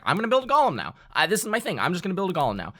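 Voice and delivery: a hint of a gleeful player; player quote. Player announces his golem plan, mildly gleeful. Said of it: "was like".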